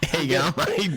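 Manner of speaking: mock casual mate. Pretend handover to struck man.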